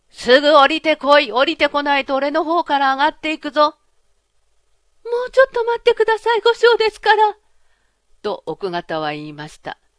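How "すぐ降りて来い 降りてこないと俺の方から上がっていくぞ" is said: all-out, loud, high, cracked-voice shouting. Narrator voices a man yelling up at his wife to come down, shouting in a cracked voice. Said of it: "ありったけの割れ金声を出して怒鳴り立てました".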